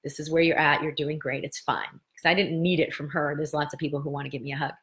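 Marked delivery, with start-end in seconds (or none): 0.0-1.9 soft, quiet self-reassurance; gentle self-talk. Retold or imitated. Talking herself through the hurt, softly reassuring. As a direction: soothe yourself gently and softly. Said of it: "I just said to myself".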